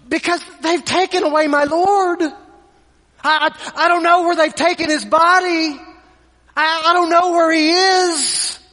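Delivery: a touch of a weeping woman pleading; distressed plea. Retold or imitated. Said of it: "she answers these angels".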